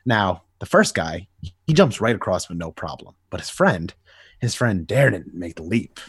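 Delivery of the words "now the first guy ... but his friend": usual speaking voice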